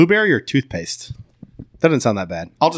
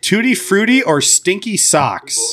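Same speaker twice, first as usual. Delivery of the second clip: announcing; 5 semitones higher, slower than usual. Real, not acted. Reading out jelly bean flavours.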